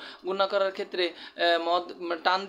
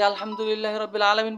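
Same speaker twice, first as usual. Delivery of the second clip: recitation; 4 dB louder than usual. Shown as a demonstration. Teacher showing how a tutor just recites the verse, lightly chanted. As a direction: demo of quick plain recital, lightly chanted. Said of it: "সে যেন আমাকে শুধু এইভাবে না পড়ায়".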